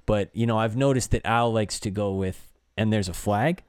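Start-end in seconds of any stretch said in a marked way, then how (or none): 2.8-3.6 "flag" rising like a question; announcer's call that lifts on "flag". Retold or imitated. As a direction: end on "flag" with a questioning lift. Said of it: "he's more question".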